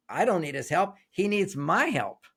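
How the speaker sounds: a self-reliant woman waving off his help; dismissive inner voice. Retold or imitated. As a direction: brush him off, leaning on my. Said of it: "your brain goes".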